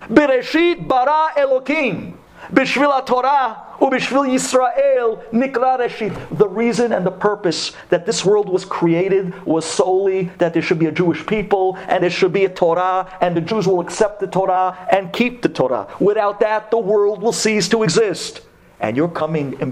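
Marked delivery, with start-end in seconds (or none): 0.0-6.1 high, slow, thundering declaration; angry proclamation. Acted. Yaakov warning Lavan, high, slow and thundering. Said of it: "who was upset and angry and demands". 6.4-18.4 fervent preaching. Acted. Rabbi explaining to the congregation, in fervent preaching.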